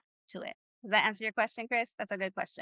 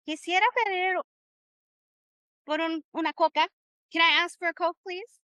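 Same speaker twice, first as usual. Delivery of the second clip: higher, eager diner voice; customer ordering; 6 semitones higher than usual. Acted. Teacher playing a diner ordering a Coke, higher. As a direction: play a customer asking the waiter.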